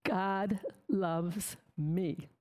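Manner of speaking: very slow, every word weighed; slow earnest conviction. Real, not acted. Assuring the congregation, slow and sincere. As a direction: let each word land, sincere and certain. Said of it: "And I'm telling you".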